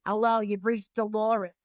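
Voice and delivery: lightly put-on thick New York accent; a hint of a New York answering-machine greeting. Mother's answering machine greeting, light New York accent. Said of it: "her thick New York accent".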